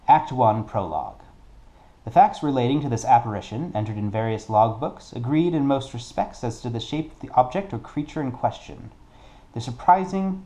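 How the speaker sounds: measured, theatrical book reading; storyteller reading from a page; story reading. Acted. Reads story card aloud.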